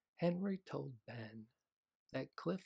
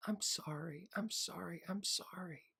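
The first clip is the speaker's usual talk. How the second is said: crying; 8 semitones higher, 3 dB louder than usual. Acted. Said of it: "Henry began to cry".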